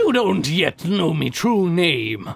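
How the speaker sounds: slow hammy pirate growl; slow, theatrical pirate boast. Pretend. Continues pirate voice.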